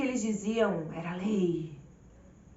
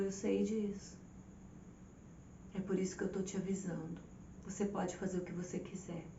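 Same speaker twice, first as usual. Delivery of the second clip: softer, lower, tender warning; gentle voice of God; 3 semitones lower, 5 dB quieter than usual. Retold or imitated. The Lord's gentle reply retold.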